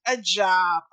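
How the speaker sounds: slow, drawn-out mock rich lady voice; badly faked posh drawl, slow; mock posh accent. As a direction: puzzle over the word job like a spoilt heiress. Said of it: "That was a terrible accent".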